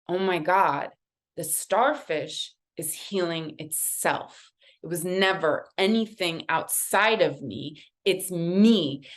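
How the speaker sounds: halting, awed realization; acted-out moment of revelation; dawning epiphany. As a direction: let the realization land phrase by phrase. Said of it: "this epiphany".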